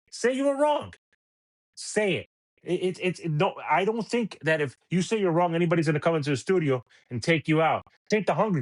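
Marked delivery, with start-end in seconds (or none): 0.1-2.3 demanding. Real, not acted. Demanding host admit error.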